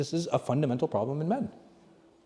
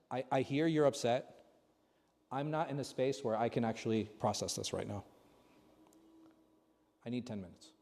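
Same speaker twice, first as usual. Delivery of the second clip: soft, measured words to an upset spouse; calm reply; 2 semitones lower, 8 dB quieter than usual. Acted. Models calm reply to upset wife.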